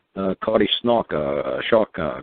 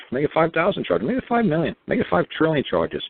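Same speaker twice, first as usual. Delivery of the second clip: each figure pushed higher and bigger; building escalation; 5 semitones higher than usual. Real, not acted. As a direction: pile it on, climbing with each number. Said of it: "escalating rhetorical build".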